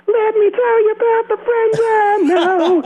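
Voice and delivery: high squeaky laughing boast, slow; sky-high laughing brag, slowed; laughing mock boast. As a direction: giggle it out like a guilty kid. Retold boast, laughing, far higher.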